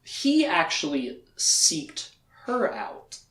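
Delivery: slow, drawn-out "seeked"; deliberate wrong word. Shown as a demonstration. Joking recap, speaker drags out the wrong word. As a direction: lean on "seeked" slowly. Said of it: "Sought would be the correct word".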